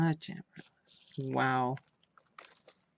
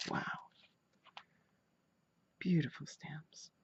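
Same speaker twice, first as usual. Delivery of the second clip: whisper; 7 dB quieter, slower than usual. Real, not acted. Admiring the stamps.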